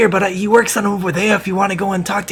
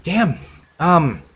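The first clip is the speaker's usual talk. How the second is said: lightly voiced craftsman; 3 semitones lower than usual. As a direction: mull it over like an impressed leather worker. Leather worker impressed.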